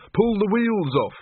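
high, drawn-out urgent shout. A narrator's reading. Ludmilla shouting advice in the fight, urgent and high. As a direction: call the order out high and slow. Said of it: "shouted Ludmilla".

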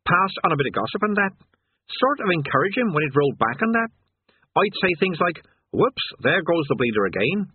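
put-on a sulky old demon missing the good days; sullen demon. Demon reminiscing to Rincewind, sullen and nostalgic. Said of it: "its voice raw with sullen indignation".

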